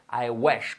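"wish" with an open e, like wesh. Shown as a demonstration. Teacher explains the vowel to learners, like an E. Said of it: "como una E".

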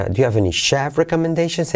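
reach the peak on "chef"; stress on chef. Shown as a demonstration. Teacher locating the accent, stress on chef. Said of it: "En chef".

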